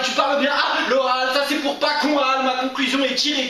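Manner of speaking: high-pitched, driving accusation in verse; impassioned slam tirade. Acted. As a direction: hammer the rhymes at the one accused. Poem rises into accusing tirade.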